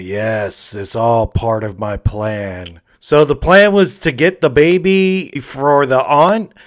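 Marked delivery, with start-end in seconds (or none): 0.0-2.8 lower, slow sinister demon; lightly voiced evil demon; mock demon voice. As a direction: gloat like a scheming demon. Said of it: "this demon comes up behind her like".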